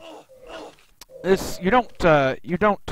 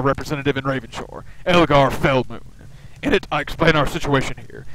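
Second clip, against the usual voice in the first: commanding leader, louder on the opening orders; urgent expedition leader; 4 dB louder than usual. Acted. Expedition leader orders the journeyman off the islands, stern and urgent.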